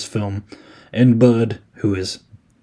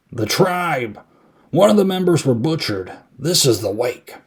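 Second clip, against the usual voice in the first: dramatic, higher-pitched imitation; Loomis; 5 semitones higher than usual. Loomis looking over at Brackett, mock dramatic pronouncement. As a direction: declaim it in mock-grave theatrical style. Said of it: "just as Loomis is acting".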